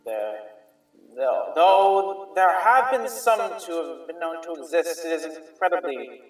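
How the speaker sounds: lightly voiced merchant musing; a hint of a pondering merchant; merchant NPC. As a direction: mull it over in the merchant's voice.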